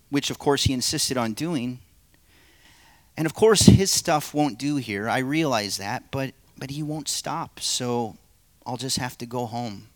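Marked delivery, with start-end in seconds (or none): 3.2-9.9 fuss, then give up and trail off; the man, fretful. Acted. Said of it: "play the narrator and three parts".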